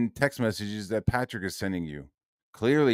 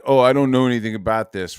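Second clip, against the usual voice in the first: fast, louder mock-innocent whine; mocking innocence; 6 dB louder, faster than usual. Mocking Ethan's feigned ignorance, fast and loud. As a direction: play dumb mockingly, rushed.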